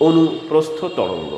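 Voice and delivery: অনুপ্রস্থ তরঙ্গ said slowly, syllable by syllable; slow dictation. Shown as a demonstration. Teacher dictating the term to students, slow and deliberate. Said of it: "এই জন্য তাকে আমরা বলে থাকি".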